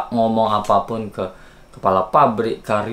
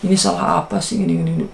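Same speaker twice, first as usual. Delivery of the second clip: raised-pitch mock scolding, quick and fussy; imitating scolding boss; 8 semitones higher than usual. Boss scolding the employee over returned goods, raised-pitch mock scold. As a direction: replay the boss lecturing you, pitched high. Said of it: "Dia ngomongnya".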